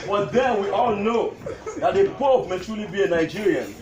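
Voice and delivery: measured recital, pausing between lines; comic tribute poem. Acted. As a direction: declaim witty verses to an amused crowd. Recites his poem to gathering.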